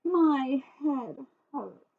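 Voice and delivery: slow drawn-out moan. Acted. Sarah trudging to the kitchen, slow moan. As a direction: moan it, dragging each word. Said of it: "she moaned".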